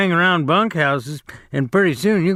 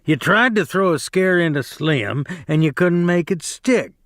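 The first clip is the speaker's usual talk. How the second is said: mildly raised, scornful challenge; taunting Carlson; 3 semitones higher than usual. Acted. Carlson taunting Curly to fight, mild raised scorn. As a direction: dare him to come at you.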